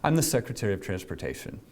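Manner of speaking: the secretary answering the officer, low and deadpan. Retold or imitated. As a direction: state the title flat and low. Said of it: "and he went".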